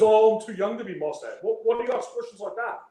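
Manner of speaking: high, lightly imitated Middle Eastern accent. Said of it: "a very Middle Eastern accent".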